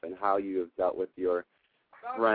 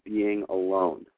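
affirmation to repeat; much slower than usual. Shown as a demonstration. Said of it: "say it after me".

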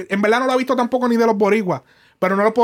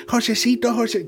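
pitched-up Colombian paisa accent imitation; imitating a paisa accent to mock it; 4 semitones higher than usual. Host mocking a rapper's paisa imitation, paisa accent. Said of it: "se está tripeando el acento paisa".

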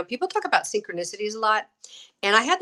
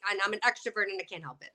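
fast, pitched-up rush of excuses; rushed and defensive; 3 semitones higher, faster than usual. Retold or imitated. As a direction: blurt it out quickly, helplessly. Her defensive reply, quoted.

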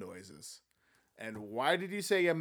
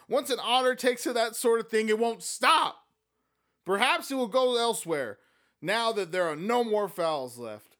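Amanda voice; 8 semitones higher, 7 dB louder than usual. Acted.

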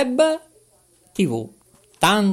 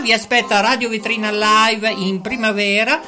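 announcer voice; 4 semitones higher than usual. Acted. Announcing a singer's birth date.

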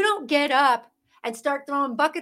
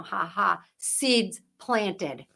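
mocking laughter; 5 semitones lower, much slower than usual. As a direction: imitate smug officials laughing at parents. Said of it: "laughing at you".

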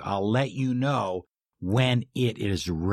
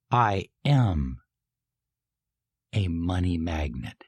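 felt affirmation. Shown as a demonstration. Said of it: "Emotionalize it".

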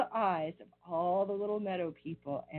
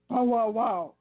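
deep hound bark; 3 semitones higher, 5 dB louder than usual. Acted. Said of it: "in his deepest voice".

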